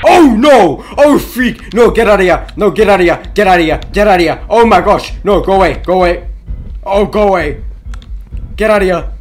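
frantic screams begging someone to open the locked door; panicked screaming. Real, not acted. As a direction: scream for your life to get out. Panicked trapped by monster.

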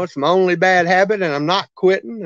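words around a wad of tobacco; lip full of dip. Real, not acted. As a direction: talk with a dip in. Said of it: "I've got a dip in my mouth".

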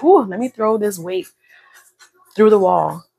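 loud, fired-up huff like heaving a weight; pumped-up exertion. Pretend. Instructor urging viewers to go hard, with fired-up loud effort. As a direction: throw it all into the lift. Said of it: "I need you to feel like".

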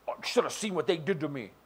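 mock self-pitying whine; lightly voiced whiny victim. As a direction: play the poor victim.

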